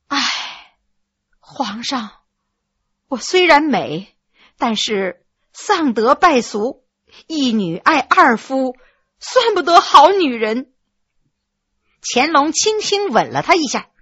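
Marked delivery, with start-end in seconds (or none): 0.1-10.7 mildly sad. Acted. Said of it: "伤感地说".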